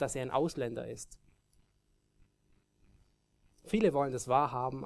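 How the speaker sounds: ordinary delivery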